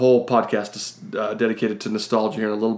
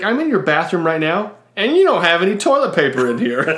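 higher-pitched phone request; imitated caller's complaint; 5 semitones higher than usual. Stall stranger tells front desk there's no paper, imitated complaint. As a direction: mimic a stranded customer making the problem known.

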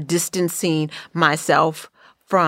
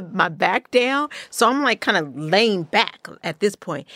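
usual speaking voice

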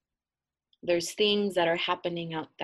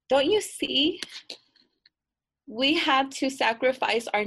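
put-on mean girl explaining; 2 semitones higher, 5 dB louder than usual. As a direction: talk down to her with urgency. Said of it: "the meanest of them all looks at her and says".

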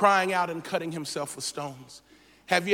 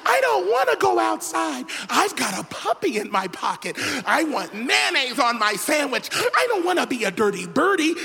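madman rambling; 5 semitones higher than usual. Acted. Voicing the madman.

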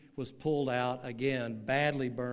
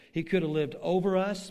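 "could" punched higher and louder; stress on could; 5 semitones higher, 6 dB louder than usual. Acted. Rhetorical contrast in sermon.

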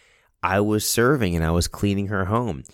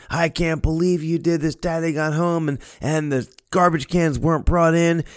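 scolding mother; 9 semitones higher than usual. Retold or imitated. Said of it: "now she's angry".

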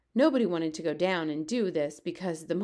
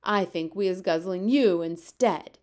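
louder menacing giant bellow; 6 dB louder than usual. Acted. Fleshlumpeater bellowing threat up at the BFG. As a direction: threaten him with a loud roar. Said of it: "the flesh lump eater bellowed".

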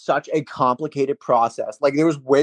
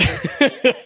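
high squeaky nothing. Real, not acted. Caught giving a look, squeaking Nothing high. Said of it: "playful denial".

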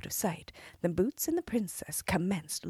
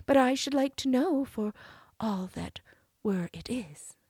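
cartoon princess; 6 semitones higher, 4 dB louder than usual. Princess coaxing.

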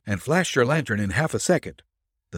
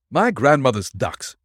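higher, mildly exasperated outburst; a touch of scornful protest; indignant exclamation; 5 semitones higher, 4 dB louder than usual. A narrator's reading. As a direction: exclaim in disbelief. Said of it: "exclaimed Nick".

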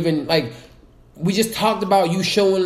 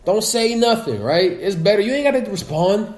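retold advice. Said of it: "two weeks ago, I said".

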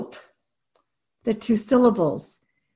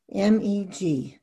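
slow letter names; 4 semitones lower, 3 dB quieter, slower than usual. Shown as a demonstration. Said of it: "you want them saying the letter names".

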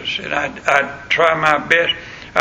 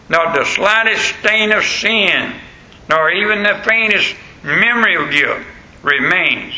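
preaching; 2 semitones higher than usual. Acted. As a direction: lift the congregation line by line. Preaching crescendo.

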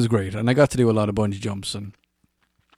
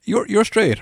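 put-on higher, louder girl's voice; girl in the club quizzing him, higher voice; girl's question; 11 semitones higher, 5 dB louder than usual. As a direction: pitch it up as the girl.

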